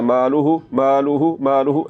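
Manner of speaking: "मालूहू" ending on a brief "hu"; unlengthened final hu. Shown as a demonstration. Teacher warns students with the wrong short ending on मालूहू. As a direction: clip the last vowel of "मालूहू". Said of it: "ऐसे नहीं पढ़ना".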